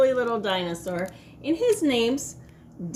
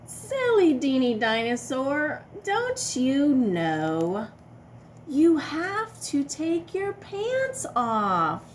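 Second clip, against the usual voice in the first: playful chiding; 4 semitones higher, 4 dB louder than usual. Acted. Scolding the silly dinosaur.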